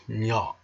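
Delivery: nya dropped low and soft. Shown as a demonstration. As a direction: nya nisko i cicho. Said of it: "you can say a word like".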